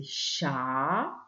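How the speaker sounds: "cha" held long with a rising tune; stretched syllable. Shown as a demonstration. Teacher isolating the first syllable heard, stretched syllable. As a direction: draw out "cha" slowly on its own. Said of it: "la première syllabe qu'on entend".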